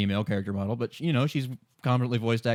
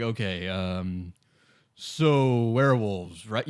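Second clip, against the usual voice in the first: slow, softer, tentative probe; slow, softer, hesitant feel-out; awkward hesitant question; 3 semitones lower, 3 dB quieter, much slower than usual. Retold or imitated. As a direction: tiptoe round an awkward subject. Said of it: "you start talking with people like".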